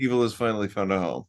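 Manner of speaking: fast, cheerful tagline read; too happy. Pretend. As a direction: sell it way too happily. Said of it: "Way too happy about that".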